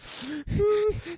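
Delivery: high-pitched mock hysterical laugh; crazed laugh that tips into crying. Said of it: "she is laughing hysterically while crying".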